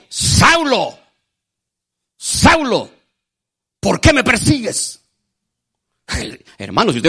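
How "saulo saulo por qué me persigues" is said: higher, solemn voice from above calling out; voice of Jesus. Acted. Jesus calling Saul from above, solemn higher voice. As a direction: call his name as a voice from heaven.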